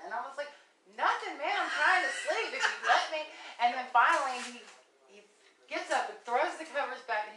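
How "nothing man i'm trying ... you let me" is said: higher, louder, laughing through the words; laughing reply. Retold or imitated. Woman laughing while answering her suspicious ex. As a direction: giggle it off while brushing him away.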